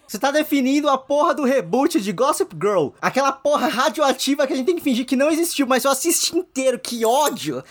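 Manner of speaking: ordinary talk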